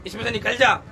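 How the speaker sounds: acted stern rebuke; scolding command. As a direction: order it out with authority. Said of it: "डांट के कहा". (डांटकर हुक्म देते हुए)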